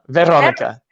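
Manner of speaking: "Veronica" with a tapped, slightly rolled "r"; careful "Veronica" with a light Czech R; lightly rolled R. Shown as a demonstration. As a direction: try "Veronica", rolling the R a little. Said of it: "you roll the R a little bit".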